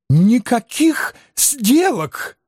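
high, slow rooster-like squeak; thin squeaky voice. Acted. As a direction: squeal it in a reedy little voice. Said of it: "тонким петушиным голоском пропищал Анцифер".

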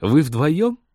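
high, sweetly surprised greeting; cooing woman. A narrator's reading. Girl cooing over a cage greets pilot, high and delighted. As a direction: pitch it up, delighted to see visitors. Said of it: "Сюсюкающая над выставочной клеткой Рит".

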